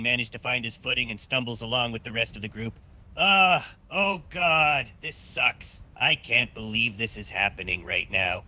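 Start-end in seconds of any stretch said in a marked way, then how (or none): 3.2-8.4 pained whimper. Acted. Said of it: "still whimpering in pain".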